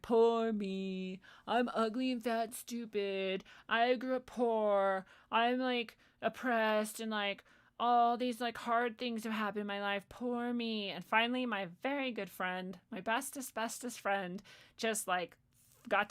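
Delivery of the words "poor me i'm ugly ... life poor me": mock self-pity. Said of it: "I was like".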